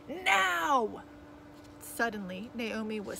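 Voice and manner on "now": high, loud one-word command; barked order. A narrator's reading. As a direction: demand it at once, loudly. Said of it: "Cap barked over his shoulder".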